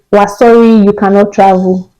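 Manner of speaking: evenly delivered apology from officials; official refusal. Retold or imitated. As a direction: turn the traveler down matter-of-factly. Officials turn the traveler down.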